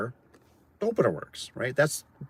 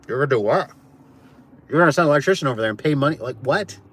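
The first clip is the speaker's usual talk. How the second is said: incredulous disbelief; faster than usual. Retold or imitated. Disbelief at paying electrician.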